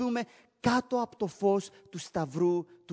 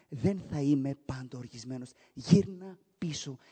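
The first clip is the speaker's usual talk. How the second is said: tender plea; 7 semitones lower than usual. Acted. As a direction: plead gently like a father. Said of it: "Ο Κύριος λέει".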